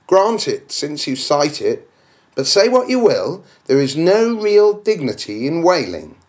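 objector's voice. Acted.

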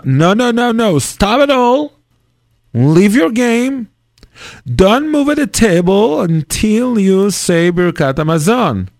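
put-on a father cutting off his child's game, strict; scolding father.

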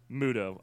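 "Muto" said MOO-toh; correct Muto. Shown as a demonstration. Host memorising the monster's name, "Muto" as MOO-toh. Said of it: "I'll remember that".

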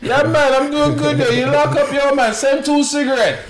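high, loud shouting between buildings; imitated window yelling. Man imitating locked-in neighbours chatting window to window, yelling. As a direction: holler to a neighbour across the way. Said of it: "yelling from their windows".

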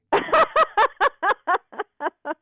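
loud real laugh, high and bright; real burst of laughter. Real, not acted. Author laughing at a joke about Michael Gove, loud laughter. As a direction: laugh out loud at the cheeky question.

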